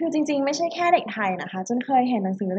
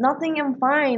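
annoyed fine; 3 semitones higher, much slower than usual. Retold or imitated. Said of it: "เราก็ยิ่งเซ็ง".

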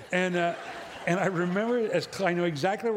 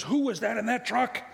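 lightly voiced lady, pitched higher; startled lady driver; 5 semitones higher than usual. Lady driver to her friend, lightly acted indignant question. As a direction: raise the pitch slightly for a retold question. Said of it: "lady driving looks at her friend".

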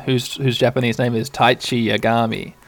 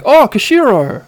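higher, fast confused question; puzzled Tai; 10 semitones higher than usual. Acted. Tai asking Koshiro about snow, higher and rushed. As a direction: ask in rushed bewilderment. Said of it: "And Tai is like".

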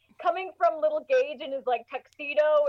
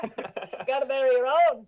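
put-on old neighbor voice. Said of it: "We should have done this voice the whole podcast".

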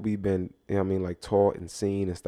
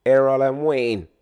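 put-on Jamaican accent; 3 semitones higher, 8 dB louder, slower than usual. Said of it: "my name is Errol".

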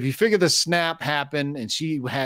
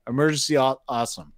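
stoned; 4 semitones lower, much faster than usual. Real, not acted. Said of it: "I'm high right now".

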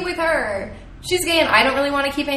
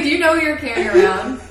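laughing mock outrage; 4 semitones higher, 4 dB louder, faster than usual. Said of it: "It's like".

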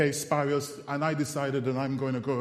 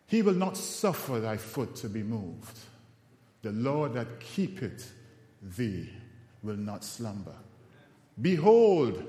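scripture recitation; 2 semitones lower than usual. Acted. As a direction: recite the verse from memory, phrase by phrase. Recites a psalm from memory.

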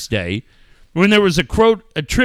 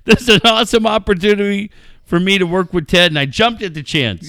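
1 read quote; 4 semitones higher, 4 dB louder, faster than usual. Retold or imitated.

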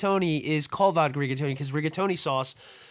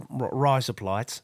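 put-on Australian accent; 4 semitones lower, slower than usual. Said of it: "Now say it like an Australian".

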